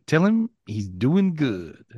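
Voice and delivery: slow, lightly voiced old man's slang; great-grandfather's slang. Psychic relays a great-grandfather's message in his slow slang. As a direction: drawl it out easy like the old man would. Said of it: "He says it like that".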